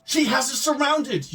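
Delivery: loud, high, drawn-out cheer. A narrator's reading. Player reading his peasant's line about being surrounded, cheering. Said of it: "you cheer".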